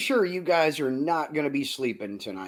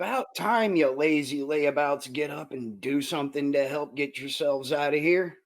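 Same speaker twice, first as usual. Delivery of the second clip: put-on obnoxious Australian accent. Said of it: "in a very obnoxious Australian accent".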